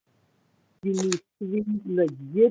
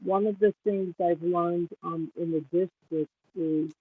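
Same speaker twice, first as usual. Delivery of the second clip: muffled, as if hand over mouth; words dulled and covered; 3 dB quieter than usual. Real, not acted. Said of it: "you're kind of mumble, muffled".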